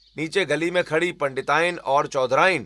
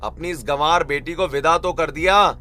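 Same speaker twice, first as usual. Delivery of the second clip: contemptuous scolding, getting louder; rude, irritated outburst; 4 dB louder than usual. Acted. Husband berating his in-laws, rude and angry. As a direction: lash out at unwelcome guests. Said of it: "बदतमीजी शुरू कर देता है".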